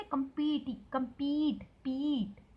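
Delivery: कम्पीट with a long, stressed पी; teacher modelling the long पी in कम्पीट; stretched pee. Shown as a demonstration. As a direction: draw out the पी in कम्पीट. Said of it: "पी को खींचेंगे".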